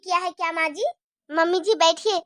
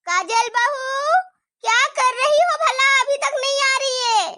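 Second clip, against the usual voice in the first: impatient call; 4 semitones higher, 4 dB louder than usual. Acted. Mother-in-law calls out impatiently.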